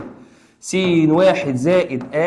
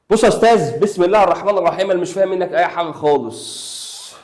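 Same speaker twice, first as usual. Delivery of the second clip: exasperated student; 2 semitones higher than usual. Acted. Teacher voices exasperated student.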